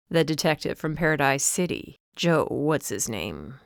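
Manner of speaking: father pretending not to recall Joe; dismissive dad. A narrator's reading. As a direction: shrug the name off. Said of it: "father voiced, dismissive".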